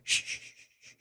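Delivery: imitating the astronaut shushing his crewmate; urgent shushing. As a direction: hush someone fast in a whisper. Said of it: "you can hear him go".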